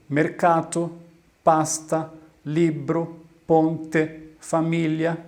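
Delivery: mercato, pasta, libro, ponte, família, each stressed on the second-to-last syllable; penultimate-syllable stress. Shown as a demonstration. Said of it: "possuem a sílaba mais forte em sua".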